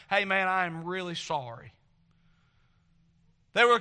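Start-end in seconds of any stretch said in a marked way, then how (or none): 0.1-1.7 retold apology. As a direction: apologize humbly, as if man to man. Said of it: "had to go up to other Christian people and say".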